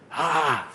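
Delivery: a sharp cry thrown at the preacher; shout. Retold or imitated. Preacher imitating the possessed woman shouting at him, mock yell. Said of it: "started shouting at me".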